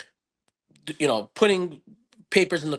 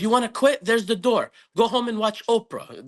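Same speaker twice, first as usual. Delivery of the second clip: stern dad scolding; 6 semitones higher than usual. Retold or imitated. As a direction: throw the line at him like a fed-up old-school father. Dad scolding son, retold.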